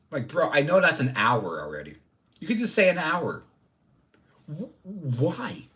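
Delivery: exasperated, pitch climbing; petty outrage ending in a stammer; raging. Real, not acted. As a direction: protest in baffled frustration. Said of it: "I'm raging over the live numbers".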